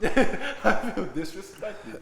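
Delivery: drawn-out fake hurt; slow mock offended voice. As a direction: stretch it out like a wounded diva. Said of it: "some people know".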